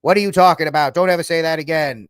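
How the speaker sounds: loud rebuke in a mock bad accent; Kevin Costner. Costner telling off the reporter, loud mock accent. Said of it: "he has the worst accent".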